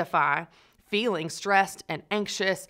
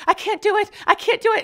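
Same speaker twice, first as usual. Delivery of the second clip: much higher, loud, hammed-up sobbing panic; Jesse Spano breakdown; 8 dB louder than usual. Retelling Saved by the Bell, Jesse panics, hammed-up high wail. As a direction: overact the TV meltdown. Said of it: "she's like".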